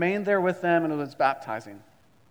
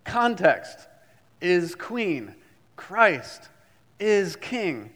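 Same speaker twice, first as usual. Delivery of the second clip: professor rallying class; 4 dB louder than usual. Retold or imitated. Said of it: "he'd say".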